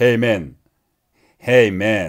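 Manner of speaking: put-on booming voice. Comparing how English speakers use their vocal cords, imitating English speakers' booming voice. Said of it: "목소리가 월월거려요".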